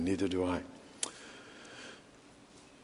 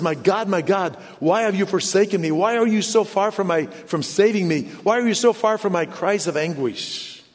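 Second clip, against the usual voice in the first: higher, pressing recitation of a lament; raised-pitch cry of complaint; anguished plea; 5 semitones higher than usual. Retold or imitated. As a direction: plead upward with mild urgency. Psalm cried out, against hushed repeat.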